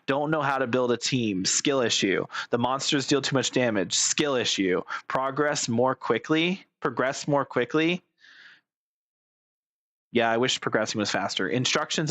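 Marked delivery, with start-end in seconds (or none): 5.1-6.6 slowly, word by word; drawn out, reading it off. Shown as a demonstration. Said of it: "repeats line".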